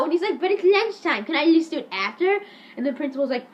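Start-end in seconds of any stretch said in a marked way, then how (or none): 0.4-2.4 higher whiny bargaining; hammed-up plea; mock pleading. Eric bargains with the principal, mock whine.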